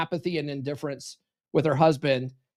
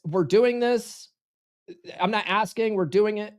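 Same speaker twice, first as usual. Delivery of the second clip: direct; 2 semitones higher than usual. Shown as a demonstration. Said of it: "It's very direct".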